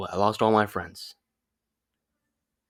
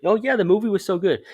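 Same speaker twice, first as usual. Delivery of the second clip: put-on quoting the girl; 9 semitones higher, 4 dB louder than usual. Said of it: "She was like".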